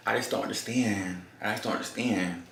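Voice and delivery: soft mock-bewildered complaint; dejected. Man leaving after being thrown out, softly dejected. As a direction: quietly imitate a man giving up.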